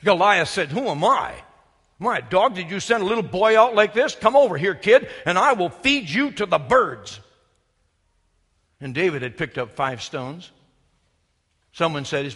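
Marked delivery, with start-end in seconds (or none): 0.7-7.2 loud mocking taunt; giant's taunt. Goliath to David across the valley, loud mocking taunt. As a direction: sneer down at the little boy.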